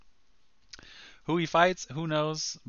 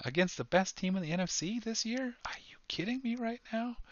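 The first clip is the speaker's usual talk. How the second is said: whispered in disbelief, rising high; excited whisper; 11 semitones higher than usual. Real, not acted. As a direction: hiss it out in amazement. Amazed about the comeback win.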